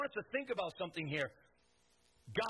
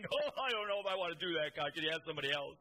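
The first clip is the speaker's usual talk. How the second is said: mock moping; faster than usual. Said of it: "walking around moping".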